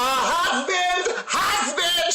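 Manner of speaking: high-pitched mock call for a husband; imitated yelling. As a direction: call out as if summoning him, mockingly. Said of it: "She's yelling for her husband".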